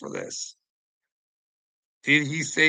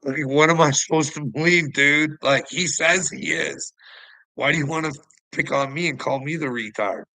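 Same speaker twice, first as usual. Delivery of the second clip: raised, louder protest; exasperated protest; 4 semitones higher, 4 dB louder than usual. Real, not acted. Answering Uncle Will's insult, exasperated and louder. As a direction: push back hard, fed up and defensive.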